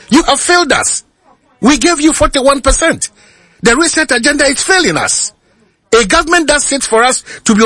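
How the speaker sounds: high, pressing complaint; frustrated outburst. Real, not acted. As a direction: let the frustration boil over. Frustrated caller attacks government.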